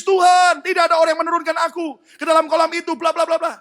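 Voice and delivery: fast, high rattled-off excuse; fast, high mock excuse; rushed quote. Sick man quoted rapidly.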